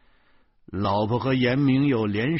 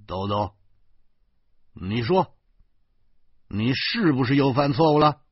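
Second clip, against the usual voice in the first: stern interrogation, growing louder; menacing father, halting then forceful; fierce; 4 semitones higher, 5 dB louder than usual. Acted. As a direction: press the child hard for a confession. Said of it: "我狠狠地说".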